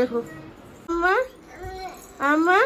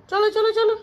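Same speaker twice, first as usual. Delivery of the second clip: coaxing call; 8 semitones higher than usual. Real, not acted. Mother urging her toddler to come along, high and eager.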